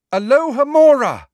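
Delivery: high, loud cried-out incantation; spell casting. A narrator's reading. Hermione casting at the locked door, loud incantation. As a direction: call out the spell with full force.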